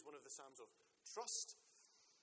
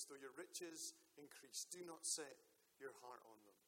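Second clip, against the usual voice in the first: scripture reading; 3 dB louder than usual. Acted. Pastor reads Psalm sixty-two.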